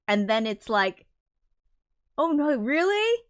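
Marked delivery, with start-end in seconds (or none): 2.2-3.2 high, hammed-up gasp of dismay; mock dismay. Streamer mimics characters suddenly upset, in high mock dismay. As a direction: play it as a cartoonish oh no.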